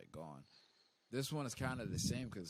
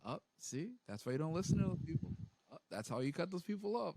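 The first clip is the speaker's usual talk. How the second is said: excited realization; 7 semitones higher than usual. Retold or imitated. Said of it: "I was like".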